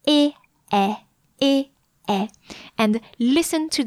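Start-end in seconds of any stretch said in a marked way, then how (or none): 0.1-2.3 smiling é then wide open è, repeated; smile, then drop the jaw open; contrast demo. Shown as a demonstration. Scene: teacher showing the mouth shapes of é and è. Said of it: "you smile and then you open your mouth".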